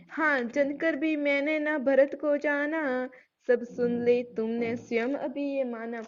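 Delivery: slow, measured verse recital; poem recitation. Acted. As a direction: chant each line slowly like a poem. (धीमा काव्य पाठ)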